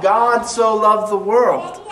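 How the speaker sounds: God so loved the world, leaning hard on God; God said slowly and held, the rest lighter; stress on God. Shown as a demonstration. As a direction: put the weight on God, slowly. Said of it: "To me, the emphasis is on God".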